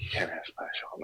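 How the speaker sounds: whispered, unvoiced warning. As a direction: hush it like a guard. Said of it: "they're like".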